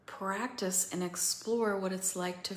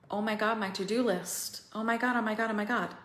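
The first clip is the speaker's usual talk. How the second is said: frantic panic; 2 semitones higher, 3 dB louder, faster than usual. Acted. Mimics frantic to-do-list panic.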